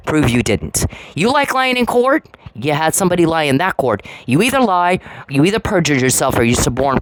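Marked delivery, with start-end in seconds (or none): 1.2-2.3 incredulous accusation. Real, not acted. Accusing rant at FBI agents.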